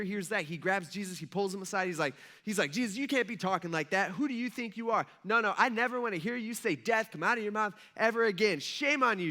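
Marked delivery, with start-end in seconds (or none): 2.7-9.3 lightly acted indignant rebuke; mock scolding. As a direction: scold in mock outrage, a little raised. Acted Peter scolding Jesus aside.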